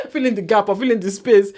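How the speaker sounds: words through a real giggle; laughing. Real, not acted. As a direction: correct yourself while giggling. Laughing at her own wording.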